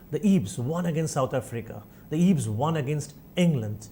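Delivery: slow headline dictation; headline read slowly. Shown as a demonstration. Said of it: "নিউজপেপারে লেখা থাকে".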